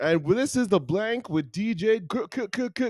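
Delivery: high, loud, hyped radio DJ voice. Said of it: "my radio D J voice going".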